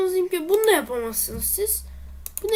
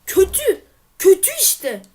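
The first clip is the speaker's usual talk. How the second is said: disappointed groan; 5 semitones higher, 8 dB louder than usual. Real, not acted. Bad review reaction.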